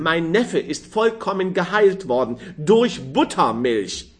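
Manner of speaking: lightly voiced gossiping woman; chatty old lady. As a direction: prattle on like a nosy aunt.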